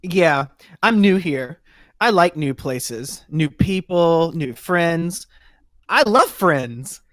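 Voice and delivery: slow, loud, overly friendly newbie; eager Noodle voice. Acted. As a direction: gush like an eager new recruit. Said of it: "Hi, I'm Noodle".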